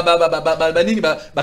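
usual speaking voice

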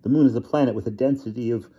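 cling to science in terror; the terrified scientist pleading with the transforming werewolf, panicked and high. A narrator's reading.

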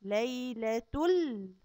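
ليلة ال- slow, tongue lifted straight to the ل; joined lam. Shown as a demonstration. Teacher showing how ليلة links to the lam, slow. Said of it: "فنقول على طول".

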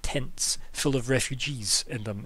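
scornful, biting sarcasm; a hint of exasperated mockery, punching overrun; worked-up sarcasm. The official mocking the party's demand for land, worked up and sarcastic. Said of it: "she's actually got quite worked up".

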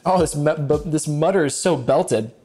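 playful put-on British accent; casual fake British chatter. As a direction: cook along in a mock-British voice. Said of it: "use my British accent".

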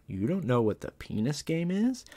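slow question rising high at the end; mock incredulity. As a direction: imitate a principal feigning disbelief. Acted mock surprise of principal.

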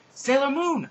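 high, loud drawn-out call; acted distress yell; yelling for help. A narrator's reading. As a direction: holler to someone far away. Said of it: "I yelled, waving my arms".

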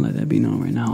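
mock deep-voiced echo; deep repeat. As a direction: drop the voice way down and rush it. Repeats line in deep put-on voice.

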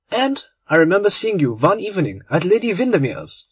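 lightly voiced German gentleman, cheerful and hospitable; a hint of a friendly German host; genial German conspirator. Genial German welcoming his guest Lord Arthur, light accent.

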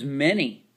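"many" said as men-ee; final y of "many" sounding as ee; long E ending. Shown as a demonstration. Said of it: "It's not man Y".

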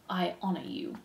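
soft, reverent murmur; whispered. Acted. Despereaux reads the words to himself, whispered. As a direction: say it softly, as a private vow. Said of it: "whispered Despereaux".

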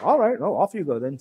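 dismissive British officers. Retold or imitated. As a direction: wave them off like a miffed British host. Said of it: "So the British are like".

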